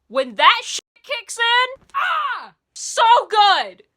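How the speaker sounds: high, loud, drawn-out raving; ecstatic gushing. Real, not acted. Host raves to viewers as the hook kicks in, ecstatic gushing. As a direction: cry out in overwhelmed delight. Gushing over the favourite part.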